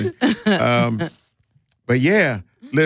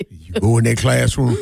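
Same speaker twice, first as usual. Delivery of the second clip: lowered, folksy command in imitation; teasing low imitation; mock plantation talk; 4 semitones lower than usual. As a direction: play a plantation elder sending a child off. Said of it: "Talking like you on a plantation".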